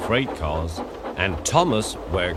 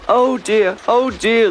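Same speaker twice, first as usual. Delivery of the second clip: high, whiny mock groan; groaning dismay; 13 semitones higher, 3 dB louder, slower than usual. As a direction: moan like sorry wagons caught out. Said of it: "they groaned".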